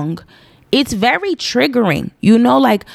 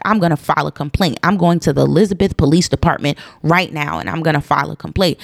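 imitating neighbor; 5 semitones lower, faster than usual. Retelling neighbor's threat.

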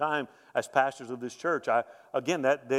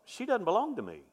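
higher realization; 7 semitones higher, 3 dB quieter than usual. Retold or imitated. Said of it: "That's exactly what I thought".

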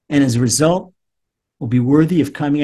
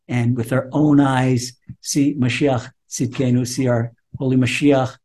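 closing prayer blessing; 2 semitones lower than usual. Acted. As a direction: bless them gently, like a prayer.

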